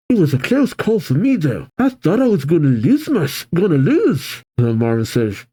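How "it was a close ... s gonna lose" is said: worn-out whine. Acted. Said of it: "head is on the table saying".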